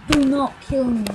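lightly put-on British accent. Player pleading not to be killed, mock British accent. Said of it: "talking in a British accent".

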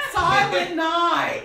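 loud, slow belted Silent night; loud sung-shout of Silent night; mock Silent night. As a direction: belt it out to shut them up. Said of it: "just go".

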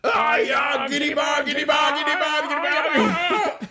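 very high, full-volume battle chant; yelled victory cry. Acted. Co-host trying out the agreed victory cry, shouted chant. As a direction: scream the nonsense chant and stretch the ending. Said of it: "Let's give it a shot".

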